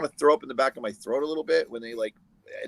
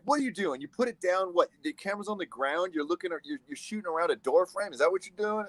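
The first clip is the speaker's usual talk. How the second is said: mad camera operator; 7 semitones higher than usual. Retold or imitated. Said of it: "And he's all mad".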